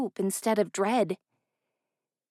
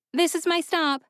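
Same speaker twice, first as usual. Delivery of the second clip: Ella; 8 semitones higher, 3 dB louder than usual. A narrator's reading. Ella insists to the driver.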